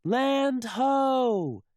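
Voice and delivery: high, loud land ho; lookout's yell. Acted. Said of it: "yells First Mate Callie".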